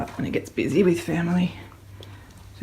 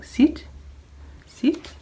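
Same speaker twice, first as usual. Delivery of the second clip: firm command; 9 semitones higher than usual. Real, not acted. Dog command.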